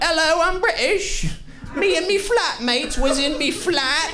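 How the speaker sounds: very high, hammed-up British voice; mock a British person in a squeaky put-on accent; exaggerated high-pitched British, every word overdone; fake British accent. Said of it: "I can see it 'cause it's every word".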